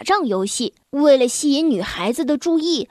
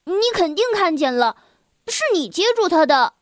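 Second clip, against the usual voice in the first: nearly shouting; 4 semitones higher than usual. Acted. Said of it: "我几乎叫了起来".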